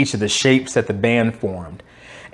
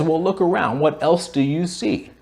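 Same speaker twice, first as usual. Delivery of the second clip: patient; 3 semitones higher, 4 dB quieter than usual. Retold or imitated. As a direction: ask calmly, guiding the boy to see it himself.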